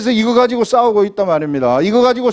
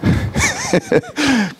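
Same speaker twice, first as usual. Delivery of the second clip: a sudden high laugh; high burst of laughter; 4 dB quieter than usual. Real, not acted. Laugh after mock question.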